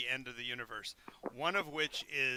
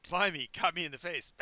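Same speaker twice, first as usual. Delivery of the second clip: put-on Cockney accent; 2 semitones higher, 3 dB louder than usual. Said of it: "trying to do that Cockney accent".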